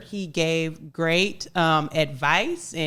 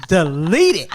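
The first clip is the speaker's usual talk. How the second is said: imitating mom; 8 dB louder than usual. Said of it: "She gonna say".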